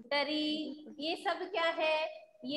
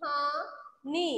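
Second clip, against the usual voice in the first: slow reading; much slower than usual. Shown as a demonstration. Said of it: "क्या पढ़ेंगे हम इसे?".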